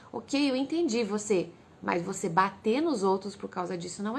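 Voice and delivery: put-on steady the child with a gentle low voice; a patient mother calming her son; calm reassuring mother. Mother calmly reassures angry child.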